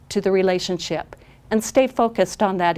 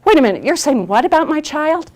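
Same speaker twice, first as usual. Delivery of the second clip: 1 indignant alarm; 8 semitones higher, 6 dB louder than usual. Retold or imitated. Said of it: "or think".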